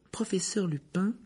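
high, tremulous reasoning voice; trembling, trying for control. A narrator's reading. Hermione tries to reason with Lupin, voice trembling. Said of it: "d'une voix tremblante qu'elle s'efforçait de maîtriser".

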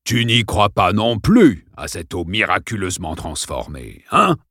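taunting, offhand; mocking principal. Principal taunts Dale, mocking. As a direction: sneer the question.

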